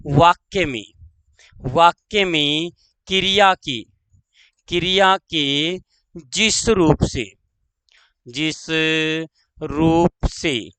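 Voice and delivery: slow words with pauses between; slow dictation. Shown as a demonstration. Teacher dictating the tense definition, slow dictation. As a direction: space the words out for pupils.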